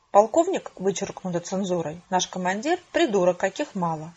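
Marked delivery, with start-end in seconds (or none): 0.7-2.0 softer, even monotone aside; censor's insert. Acted. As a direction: drop into an impersonal redaction notice. Censor's cut inserted in letter. (монотонная пометка цензора)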